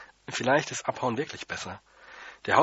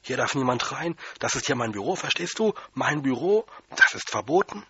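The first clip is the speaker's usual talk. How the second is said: louder angry yelling, rising higher at the end; yelling janitor; 4 semitones higher, 5 dB louder than usual. Acted. Janitor yelling at the boy about his office. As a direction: shout him down, getting shriller. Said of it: "aber er hat nur geschrien".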